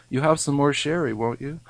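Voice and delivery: lightly drawled southern barman; a hint of a Southern barman's drawl; mild Southern drawl, coaxing. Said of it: "in his southern gay drawl".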